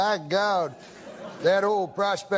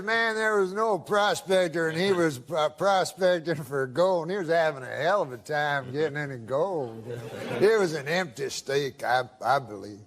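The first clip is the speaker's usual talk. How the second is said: drawling prospector voice; 2 semitones lower than usual. Retold or imitated. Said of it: "That's how he talks".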